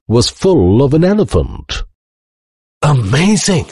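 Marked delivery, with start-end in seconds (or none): 2.8-3.7 high gasp of amazement, briefer. A narrator's reading. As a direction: exclaim it high, astonished and winded. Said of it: "gasped the Professor".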